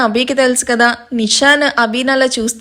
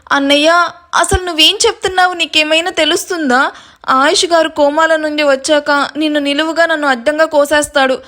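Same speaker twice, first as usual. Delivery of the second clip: agitated protest; 5 semitones higher than usual. Acted. Protesting brother's plan.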